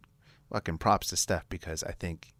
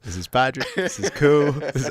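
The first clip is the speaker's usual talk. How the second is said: excited; 9 semitones higher, 12 dB louder than usual. Retold or imitated. Excitedly introducing new friends, laughing.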